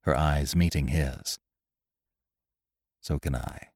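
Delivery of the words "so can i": low, hushed intensity; quiet, restrained tension; tense voice. A narrator's reading. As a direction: answer softly and gravely, pitched down. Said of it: "came back with the same tense voice".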